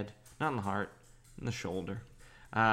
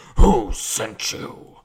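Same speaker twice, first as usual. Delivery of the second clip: deep, very loud, booming superhero voice; 14 dB louder than usual. Describing a fight scene, the hero questioning the men, in deep Christian Bale Batman voice. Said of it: "in that Christian Bale like deep voice".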